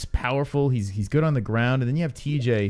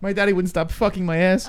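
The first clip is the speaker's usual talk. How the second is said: put-on whiny drunk woman; 8 semitones higher than usual. Mocking drunk women's whining.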